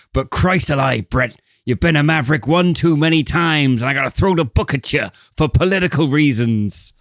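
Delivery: lightly voiced exasperated police boss; hint of an old cop-film character; movie detective voice. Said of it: "my fucking whatever voice that these detectives use".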